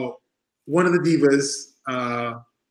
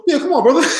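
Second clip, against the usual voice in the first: friendly invite; 11 semitones higher, 5 dB louder, faster than usual. Retold or imitated. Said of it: "He goes".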